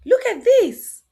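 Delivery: loud excited pointing out; excited call. Shown as a demonstration. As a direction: grab the kids' attention. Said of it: "calling children's attention".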